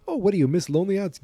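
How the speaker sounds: mock him like a punk; mocking teen. Young Biff mocking.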